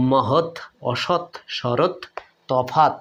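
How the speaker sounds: মহৎ, অসৎ, শরৎ, তফাৎ each ending on a bare t; word by word, closing each of মহৎ, অসৎ, শরৎ, তফাৎ on t; silent final vowels. Shown as a demonstration. Teacher listing examples for students, each with closed final t. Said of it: "কিভাবে উচ্চারণ করি".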